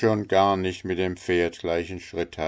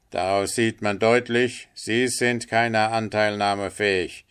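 lightly voiced water rat, a bit higher; reproachful water rat; 4 semitones higher, 4 dB louder than usual. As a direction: scold the linnet for lacking sympathy. (vorwurfsvolle Wasserratte, etwas höher)

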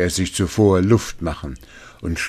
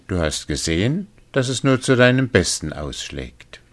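cheerful little man; 5 semitones higher than usual. Acted. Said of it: "gar fröhlich".

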